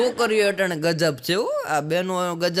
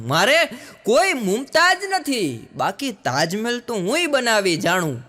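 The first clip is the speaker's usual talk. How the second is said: proud declaration; 3 semitones higher than usual. Shown as a demonstration. Repeats the post, slower and higher.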